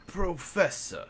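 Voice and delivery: quiet, slow, careful syllables; copying the girl. Acted. Professor repeats her title back to the girl, slowly and carefully. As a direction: echo PROFESSOR slowly, stretching each syllable. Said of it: "say exactly how she said".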